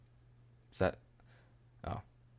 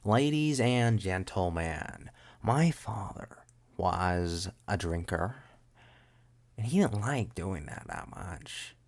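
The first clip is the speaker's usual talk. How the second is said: put-on character voice; slower than usual. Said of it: "How does he talk?".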